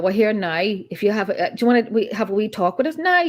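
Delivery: lightly put-on Northern Irish lilt; Northern Irish accent. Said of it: "northern accent".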